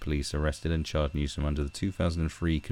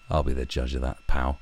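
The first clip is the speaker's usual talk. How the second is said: tough guy; 5 semitones lower than usual. Acted. Tough-guy retort to article.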